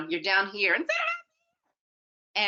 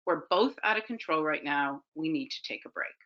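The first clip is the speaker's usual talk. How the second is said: measured, lower-key calm voice; 3 semitones lower than usual. Acted. Parent stopping a yelling match with the kid, very calm. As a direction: keep it calm and let it soften at the end. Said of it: "in this very calm voice".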